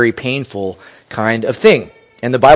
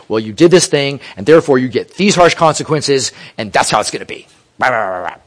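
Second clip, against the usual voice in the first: mock angry parent. Preacher imitating a parent handing out harsh consequences, mock stern. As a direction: lay down the law like an overbearing parent, mockingly. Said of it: "unself-controlled way to talk to".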